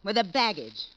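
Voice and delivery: a wife raging at the husband who despised her; furious shout. Acted. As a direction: spit the words out in rage. Furious outburst over husband's contempt.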